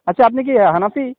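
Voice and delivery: choppy phone line, words dropping out; radio breaking up. Real, not acted. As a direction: voice cutting in and out. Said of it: "কথা কেটে কেটে আসছে।".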